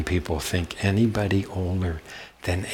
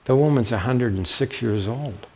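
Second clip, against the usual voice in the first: a touch higher, sweet and polite, quick on the middle; very nice voice; 4 semitones higher, 3 dB quieter than usual. Retold or imitated. Student sweetly tells her teacher she already has somebody, nice voice. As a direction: play the polite student gently correcting him. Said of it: "in a very nice voice".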